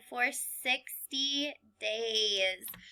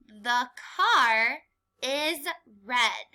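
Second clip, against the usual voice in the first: slow model sentence; slower than usual. Shown as a demonstration. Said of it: "read the sentence".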